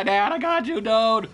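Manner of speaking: mock-heroic shout; heroic rescue cry. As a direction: play the rescuer hauling a friend to safety. Plays rescuer carrying downed friend.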